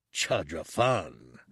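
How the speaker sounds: lightly voiced menacing lizard. Bosk lizard voice.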